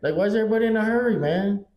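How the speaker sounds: exasperated rant. Real, not acted. Ranting about fast drivers.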